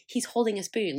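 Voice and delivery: flat, scornful He's holding a spoon, nothing stressed; deadpan mockery of a proud parent; unimpressed scorn. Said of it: "And I'm like".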